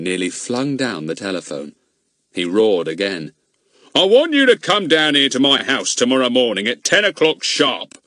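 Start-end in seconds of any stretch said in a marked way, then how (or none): 3.9-8.0 louder, higher shouted order; shouting. A narrator's reading. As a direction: bark out the summons. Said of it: "he shouted".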